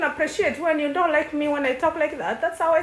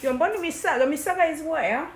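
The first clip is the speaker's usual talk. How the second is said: mock British accent, lightly done; a kid faking a British accent; put-on British accent; faster than usual. Sister teased for her mock British accent. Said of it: "Stop talking that way".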